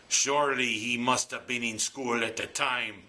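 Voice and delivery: a firmer try at an Irish brogue; better Irish brogue. Retold or imitated. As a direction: lean harder into the Irish lilt. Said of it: "that's a better Irish brogue".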